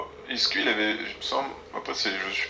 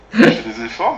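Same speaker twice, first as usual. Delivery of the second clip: louder straining; 8 semitones higher, 11 dB louder than usual. Real, not acted.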